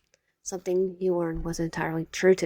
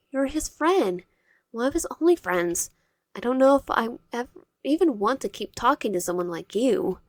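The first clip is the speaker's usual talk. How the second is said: higher, rising indignant scolding; 3 semitones higher than usual. Acted. Wyatt scolding Cairo for mistreating Virgil, higher and heated. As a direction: tell him off for treating Virgil badly.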